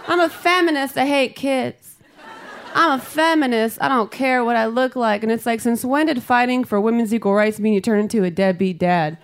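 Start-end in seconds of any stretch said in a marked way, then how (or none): 0.1-5.2 lightly mimicked, higher declaration; mock feminists. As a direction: declare it in gentle mockery, pitched up. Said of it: "Women say shit like".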